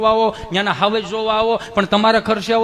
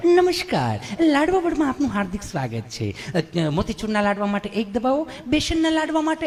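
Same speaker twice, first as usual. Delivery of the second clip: sing-song recorded operator; imitating a phone menu recording; IVR menu voice; 3 semitones higher than usual.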